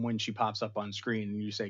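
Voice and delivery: ordinary talk, nothing marked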